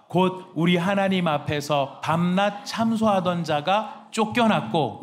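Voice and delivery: slow, loud unison Bible reading; scripture reading. Real, not acted. Pastor leading the church in reading, slow and loud. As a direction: read it out together, slowly and loud.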